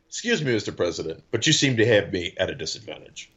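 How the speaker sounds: low, unruffled retelling of a quote; imitated calm. Naked guest addresses the dead president, imitated calm. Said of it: "how calm was that response".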